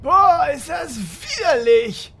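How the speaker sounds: hammed-up disgust. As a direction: recoil at the sight. Disgusted by the worm.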